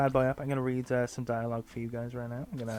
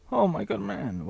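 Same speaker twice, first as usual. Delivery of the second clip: higher, louder, hearty exclamation; put-on dad voice; 9 semitones higher, 5 dB louder than usual. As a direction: call it out high, without the creepiness. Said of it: "Well, you know, he sounds like he's on the register".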